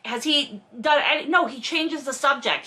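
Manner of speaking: usual speaking voice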